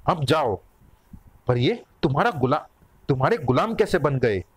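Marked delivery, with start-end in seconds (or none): none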